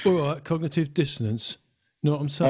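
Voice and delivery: playful put-on British accent. Shown as a demonstration. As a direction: redo it in a cheeky British voice. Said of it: "I should have said that in a British accent".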